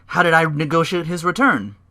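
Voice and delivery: imitating Heyman. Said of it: "Heyman's like".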